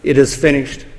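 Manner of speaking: soft, spent, dropping low on the words; a quiet last breath of a cry; hushed cry. Retold or imitated. The Son on the cross, hushed and spent. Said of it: "As soon as the Son cries out".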